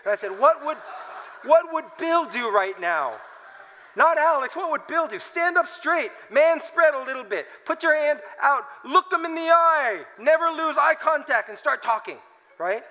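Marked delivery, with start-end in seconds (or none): 0.3-5.2 higher, louder confident self-talk; psyching himself up as Bill; inner white man. Retold or imitated. Speaker channeling his inner white man, higher and louder. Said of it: "channel my inner white man". 5.2-12.2 higher, louder coaching himself; a hint of Bill. Pastor listing what Bill would do, a touch louder. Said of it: "channel my inner white man".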